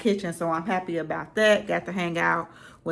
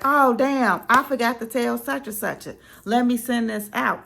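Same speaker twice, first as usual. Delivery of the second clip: higher, louder mock dismay at forgetting; sudden realization; 6 semitones higher, 4 dB louder than usual. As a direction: act out an oops-I-forgot moment. Acting a host who suddenly remembers.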